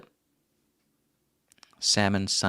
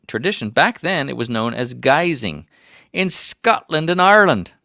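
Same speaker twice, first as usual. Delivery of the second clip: put-on raised, emphatic old mountain man voice; old prospector; 4 semitones higher, 4 dB louder than usual. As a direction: tell fun facts as an old prospector, voice pitched up. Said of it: "by the old prospector".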